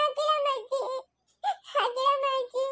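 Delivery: quiet tearful calling; softly crying. Acted. Feverish child crying for her grandma, softly. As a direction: whimper the name.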